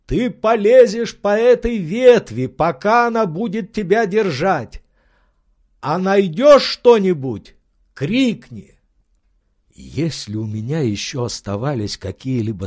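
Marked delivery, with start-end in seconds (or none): 0.1-8.8 high, louder, urgent orders; Legrand's excited voice. Acted. Legrand ordering his servant along the branch, excited and loud. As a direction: push him on, thrilled and urgent.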